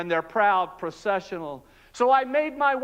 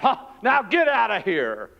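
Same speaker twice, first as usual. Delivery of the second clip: laughing guard. Acted. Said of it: "And then he laughed".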